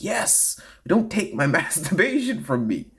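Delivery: high, pleading celebrity; whiny celebrity voice. Retold or imitated. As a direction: beg like a spoiled star.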